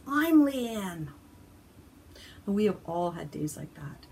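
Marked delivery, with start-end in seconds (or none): 0.1-1.1 sudden loud, high blurt; frazzled outburst. Retold or imitated. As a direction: burst out at the end of her rope. Frazzled mom finally bursts out.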